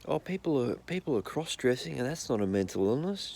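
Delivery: mock stepmom. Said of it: "the stepmom goes".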